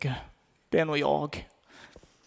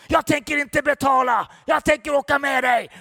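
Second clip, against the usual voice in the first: loud, high-pitched imitation of an angry yell; retold shout; 7 semitones higher, 6 dB louder than usual. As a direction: shout it out as the tough guy boarding the bus. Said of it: "skrek han". (härmat högt skrik)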